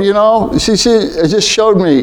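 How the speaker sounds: usual speaking voice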